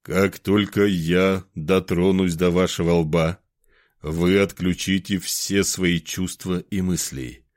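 slow, even hypnotist drone; monotone lulling voice. Acted. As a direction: lull him under, slowly and evenly. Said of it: "заговорил монотонным, убаюкивающим голосом".

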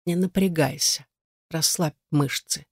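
gentle, unhurried reassurance; soft, insinuating voice. A narrator's reading. Stranger reassures frightened Igar, soft coaxing voice. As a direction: coax him softly to relax. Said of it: "Мягкий и вкрадчивый".

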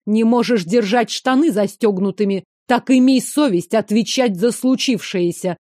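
a touch of a growl, lightly voiced. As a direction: snarl it into his face, understated. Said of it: "прорычала прямо в лицо".

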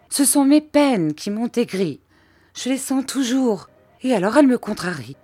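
wallow in misery aloud; high plaintive wail of woe; self-pitying lament. A narrator's reading.

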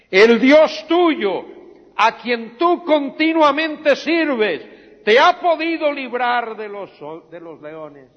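high, loud, slow cry; anxious shout. Acted. King calls into the den to ask if Daniel lives, loud and high. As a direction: shout down into the pit.

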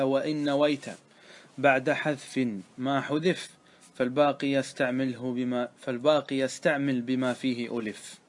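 slow, measured verse recitation; chanted-out teaching line, drawn out; reciting verse. Acted. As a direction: read out the grammar verse slowly.

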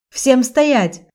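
loud, high commanding shout; yelling. Acted. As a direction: bark the order. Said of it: "заорал Жак".

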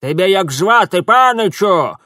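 put-on old woman shouting over the torrent; yelling over water. A narrator's reading. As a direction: yell across the roaring rapids. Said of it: "перекрикивая грохот воды, завопила".

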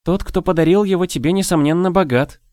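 exclaiming. A narrator's reading. Daniela marvels at who gave Vi the puppy, exclaiming. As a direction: burst out with excited admiration. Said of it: "воскликнула Даниэла".

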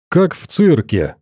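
lightly voiced delighted cry; a touch of admiring wonder; admiring exclamation. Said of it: "восхищённо воскликнул док".

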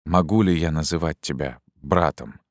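touched. Acted. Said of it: "добавил растроганно".

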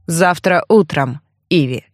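a sly smirk as he leaves. Acted. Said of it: "Усмехнулся". (Альф прощается с Иви, с усмешкой)

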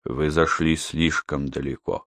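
low, soft grave rebuke; quiet. Acted. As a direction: say it low and heavy. Yon calm rebuke.

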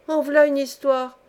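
exclamation plus aiguë et plus forte; la logeuse s'étonne devant sa servante; vieille logeuse. Acted. Vieille femme répète à la servante. (exclamation de vieille femme, appuyée)

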